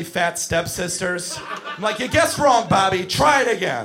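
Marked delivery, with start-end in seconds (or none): 2.0-3.9 louder, higher exasperated telling-off; exasperated scolding. Retold or imitated. Fed-up counselor fitting skates on a kid, exasperated yelling. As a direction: scold a kid at raised pitch.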